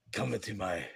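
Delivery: put-on a light, low French accent, quiet; half-hearted Pepe Le Pew French accent. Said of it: "trying to do a French accent?".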